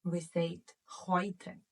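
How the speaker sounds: heute with oi sound, said slowly; German heute. Shown as a demonstration. Teacher showing how to say today in German, slow model word. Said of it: "How do we say today in German".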